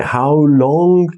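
"how long" both stressed, held high. Shown as a demonstration. Teacher showing the two accented words, stress on how long. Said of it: "pierwsze dwa człony akcentowane".

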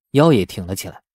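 plain reading voice

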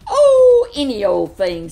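high, loud, offhand call; breezy big animals. A narrator's reading. Big animals brush off the rabbit's question, loud and breezy. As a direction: toss it off loudly. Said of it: "said the big animals".

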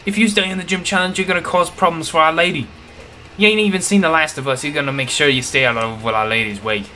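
hammed-up thug warning; put-on grunt voice. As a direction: taunt the trainer as a cocky gang member. Voices Team Yell grunt.

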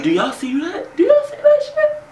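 loud, very high incredulous squeal; mock astonishment. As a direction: play him amazed, pitch and volume climbing. Acting out baby's astonished appeal to others.

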